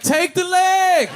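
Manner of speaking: very slow, high, loud "Take the leg"; slow emphatic inner voice; drawn-out decision. Retold or imitated. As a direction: stretch it out like an easy choice. White people's inner thought.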